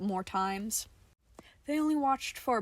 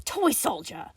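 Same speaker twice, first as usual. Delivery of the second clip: accusing; 4 dB louder than usual. A narrator's reading. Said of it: "like an accusation".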